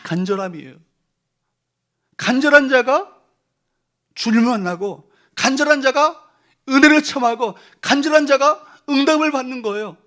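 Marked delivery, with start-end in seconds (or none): 2.2-10.0 fervent preaching. Acted. Preaching at full force.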